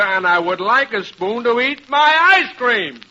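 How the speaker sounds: exasperation building to a high peak; fed-up customer's insistence; indignant demand. Acted. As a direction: demand it, rising to an outraged finish. Customer demands spoon in quarrel.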